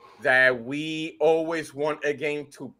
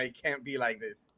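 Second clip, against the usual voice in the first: low, soft disbelief; quiet, falling reaction; retold dismay; 5 semitones lower, 12 dB quieter than usual. Retold reaction, said then re-said emphatically.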